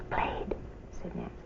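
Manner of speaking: a soft whispered single word; a withdrawn child whispering played; whispered answer. A narrator's reading. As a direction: barely voice it.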